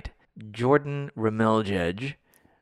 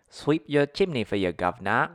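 Cockney-tinged try at Australian, pitch up on the start; a would-be Australian slipping into Cockney; mock Cockney chimney sweep; Cockney accent. Shown as a demonstration. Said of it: "Nope, that's still Cockney".

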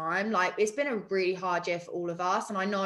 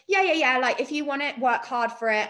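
mock pep talk; 3 semitones higher, 3 dB louder than usual. Mocking generic fitness pep talk.

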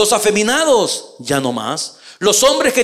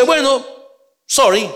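dismissive sorry; 5 semitones higher than usual. Retold or imitated. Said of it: "Si usted dice".

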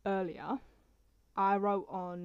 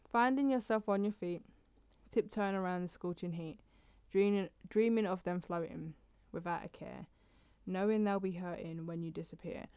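reading a personal poem aloud. Acted. Reads her poem.

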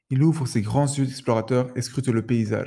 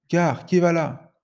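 slow mock challenge from the bushes; cry out; 4 semitones higher, slower than usual. Hidden panther challenging the travellers, slow mock cry. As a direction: call it out slowly, a guard's challenge. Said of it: "Crie une voix".

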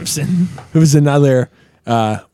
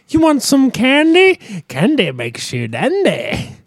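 dealer voice; 11 semitones higher, much slower than usual. Retold or imitated. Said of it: "And he's like".

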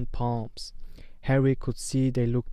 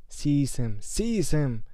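shriek; 3 semitones higher, slower than usual. Acted. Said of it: "shrieked Voldemort again".

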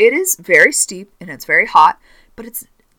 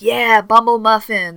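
slow, drawn-out crowd cheer, higher; excited cheering; 4 semitones higher, 4 dB louder than usual. Retold or imitated. Campers cheering on their counselor, excited. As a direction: imitate hyped-up campers. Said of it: "there was a lot of excitement".

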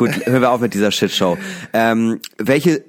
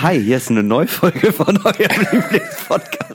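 bright mock podcast intro, higher and slow; podcast host voice; 7 semitones higher than usual. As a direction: announce it like a cheesy podcast host, laughing.

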